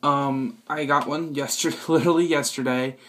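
echoey bathroom sound; talking in a tiled bathroom. Real, not acted. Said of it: "sorry for the echo".

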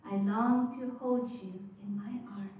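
breathy whisper repeating the line; whispered echo. Acted. Mother whispering her longing to her unborn child. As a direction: let the line fall to a whisper.

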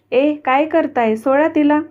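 sharp angry shout at the bullies; boy angrily confronting the bullies. Acted. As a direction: snap at the boys to let her go. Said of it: "धक्का देत रागाने बोलला".

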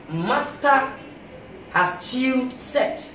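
master has chewed set, slow and chunk by chunk; syllabated. Shown as a demonstration. Teacher splitting Massachusetts into its meanings, slowly syllabated. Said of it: "going to have it syllabated".

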